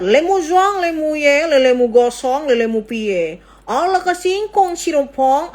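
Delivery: high, singsong fake French gibberish with rising ends; mock French. Joking with the doctor that she speaks French, hammed-up fake French accent. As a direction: ham up a made-up French accent, words like bonjour, croissant, pangsit. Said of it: "Apa pakai bahasa Perancis ini?".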